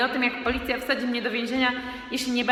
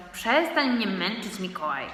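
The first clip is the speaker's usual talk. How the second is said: weary sigh. Acted. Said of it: "westchnął tata".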